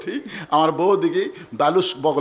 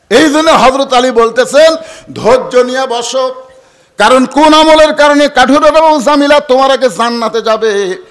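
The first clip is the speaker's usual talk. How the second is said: tuneful sermon delivery, opening high and loud, then settling; lightly chanted preacher's storytelling; preaching; 6 semitones higher, 7 dB louder than usual. Acted. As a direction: preach the tale in a chanting cadence.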